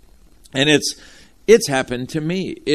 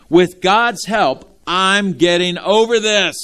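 rising refrain; 6 semitones higher, 4 dB louder, slower than usual. Shown as a demonstration. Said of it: "Say it one more time".

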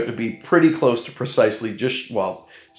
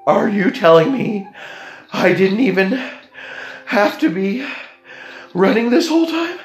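incredulous outrage; 8 semitones higher than usual. Retold or imitated. Traveller asks the gate agent, rising incredulous. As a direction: pitch climbing higher and higher.

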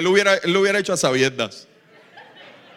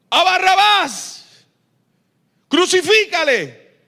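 mob answering; 11 semitones higher, 7 dB louder, slower than usual. Retold or imitated. Crowd answers Pilate.

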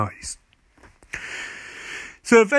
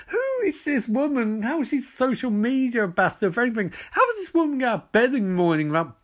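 incredulous mock outrage; 4 semitones higher than usual. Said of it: "I'm like".

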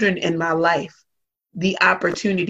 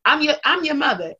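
indignant parent; 7 semitones higher than usual. Retold or imitated.

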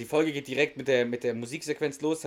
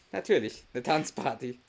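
sarcastic. Real, not acted. Mocking Duck's silly idea.

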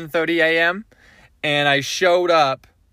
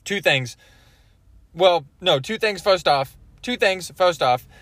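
chocolate in mouth; words round a bite of chocolate; mouth full. Real, not acted. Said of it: "There's chocolate in my mouth".

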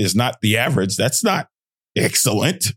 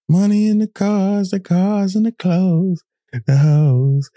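laughing; 8 semitones higher, slower than usual. Real, not acted. Saying the H word out.

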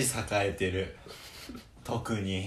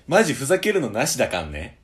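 put-on old-school gyaru slang, fast; gyaru speak; 5 dB louder, faster than usual. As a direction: play a 90s Japanese gyaru. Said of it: "なんで二世代前のギャルなの？".

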